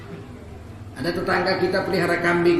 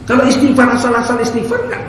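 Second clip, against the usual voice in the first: loud, higher burst; preaching outburst; 4 semitones higher, 8 dB louder than usual. Acted. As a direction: hit the opening hard. (seruan keras dan tinggi)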